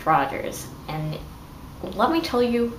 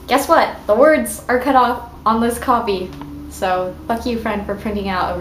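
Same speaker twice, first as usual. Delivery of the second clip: exasperated outburst; 4 dB louder than usual. Real, not acted. Annoyed at bad printout.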